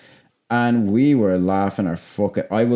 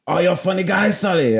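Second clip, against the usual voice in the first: high, jokey teasing delivery; playful tease; 9 semitones higher than usual. Retold or imitated. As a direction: tease him like a friendly joke. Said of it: "so Arnold would be like".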